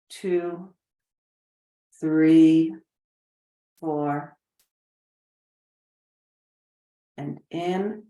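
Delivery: unhurried, spacious meditation voice; measured relaxation instructions, leaving room to breathe; guided meditation. Shown as a demonstration. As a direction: guide them into calm with long pauses.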